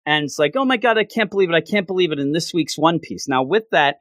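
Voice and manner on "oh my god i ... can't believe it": higher, rapid-fire mock gushing; excited disbelief. Host imitates a kid with news of the manga, fast excited disbelief.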